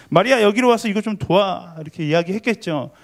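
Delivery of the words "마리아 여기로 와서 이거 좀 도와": higher-pitched mock angry call; annoyed call. Older sister ordering Mary over to help, mildly cross call. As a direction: imitate a cross sister calling out. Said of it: "화가 나서 마리아에게 소리쳤죠".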